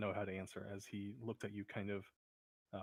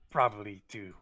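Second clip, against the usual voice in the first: halting, then more forceful on each threat; lightly voiced kobold expecting the worst; pessimistic kobold; 4 dB louder than usual. Kobold guesses why goblins want gold, grim pessimism. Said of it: "quite pessimistic in his view of the goblins".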